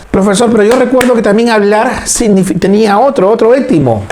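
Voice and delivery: a touch of a student half-remembering; student asking. Acted. Teacher voicing a pupil who recalls another root, lightly acted.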